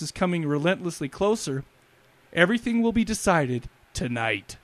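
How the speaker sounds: trailer-style narration, measured and grave; dramatic synopsis read. Acted. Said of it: "I felt a little silly reading that".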